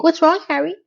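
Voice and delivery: high, put-on weird voice; Charlotte. Wife asking Harry what's wrong, imitated weird voice. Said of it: "she has this weird voice all of a sudden".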